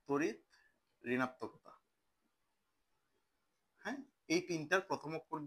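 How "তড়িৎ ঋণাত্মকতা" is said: slow syllable split. Shown as a demonstration. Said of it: "কি পড়বো?".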